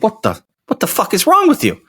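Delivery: high incredulous outburst; mock outrage. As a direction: act out shocked disbelief. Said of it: "I'm like".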